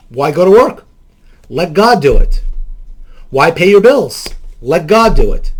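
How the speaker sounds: loud sarcastic jabs; sarcastic mock. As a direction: throw the absurd idea back with sarcasm. Mocking the do-nothing belief.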